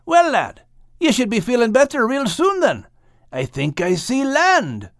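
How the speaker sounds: high hopeful lilt; hopeful Max. A narrator's reading. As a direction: spot land and cheer him up. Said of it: "said Max".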